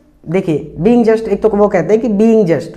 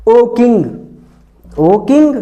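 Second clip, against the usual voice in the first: mock shout; 4 semitones higher than usual. Chief builder crying out to the king, mild mock shout. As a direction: call out to the king like a frightened man pleading. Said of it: "वो चिल्ला कर बोला".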